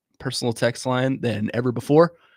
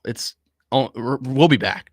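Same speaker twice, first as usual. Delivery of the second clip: choked-up stammer; stumbling over words, emotional; stuttering; 4 dB louder than usual. Real, not acted. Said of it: "I'm stuttering like crazy because I'm choked up".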